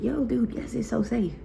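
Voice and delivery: high, eager pep talk; hyped reassurance. Retold or imitated. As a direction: cheer her up like a buddy. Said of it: "I'm like".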